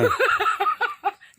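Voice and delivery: high, loud burst of laughter. Real, not acted. Guest joking about a monk's lost millions, loud laughter.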